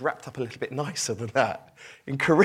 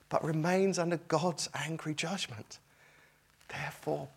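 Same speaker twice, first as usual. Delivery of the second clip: pleading tone; 2 semitones lower than usual. Shown as a demonstration. Preacher rereading the same verse as a tender plea. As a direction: read it gently, begging them to listen. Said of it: "Exactly the same words, different tone".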